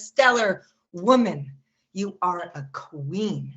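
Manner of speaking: measured, emphatic poem delivery; earnest spoken-word address. Acted. Poem turns to address women.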